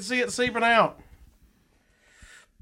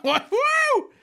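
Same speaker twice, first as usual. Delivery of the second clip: giddy winning streak. Real, not acted. Giddy over a band's album.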